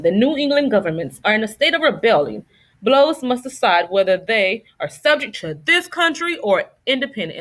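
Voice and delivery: lightly put-on British accent for King George. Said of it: "my British accent".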